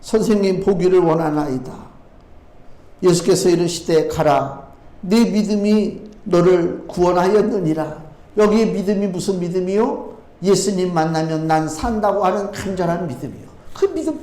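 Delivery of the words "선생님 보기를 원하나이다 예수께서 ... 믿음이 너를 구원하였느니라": low, measured reading of dialogue from scripture. Acted. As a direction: recite the verse in a lowered, steady voice. Reads scripture aloud. (낮은 목소리로 성경 봉독)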